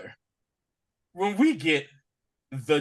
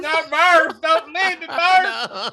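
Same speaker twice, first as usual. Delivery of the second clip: McConaughey impression; 12 semitones higher, 5 dB louder, slower than usual. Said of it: "Matthew McConaughey is Matthew McConaughey".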